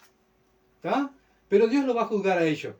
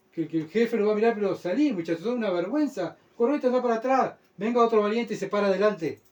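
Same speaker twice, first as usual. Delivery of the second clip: jefe regañando; 4 semitones higher than usual. Acted. Acted chief scolding a whining soldier.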